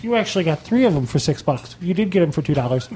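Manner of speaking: talking through a mouthful of cracker; mumbling around a dry cracker; eating dry crackers. Real, not acted. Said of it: "I have a cracker in my mouth".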